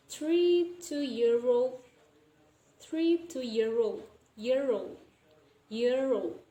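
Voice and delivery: put-on "year old" joined so "old" starts on r, like "roll"; linked pronunciation. Shown as a demonstration. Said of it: "old will become roll".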